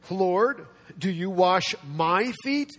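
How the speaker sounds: slow, weighted question rising on FEET; emphatic disbelief. Acted. Peter questions Jesus about washing his feet, emphatic disbelief. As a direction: stretch out "wash my feet" as a question. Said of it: "It's all in the emphatic tense".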